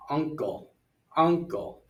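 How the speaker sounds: UNcle, weight on the first syllable; first-syllable stress. Shown as a demonstration. Teacher sorts words by stress, first syllable of uncle stressed. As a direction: lean on the start of uncle. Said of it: "first syllable".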